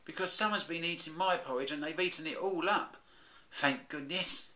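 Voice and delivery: high, cheerful little cub; a relieved child bear; Baby Bear voice. Acted. Baby Bear pleased his porridge is gone, high cheerful voice.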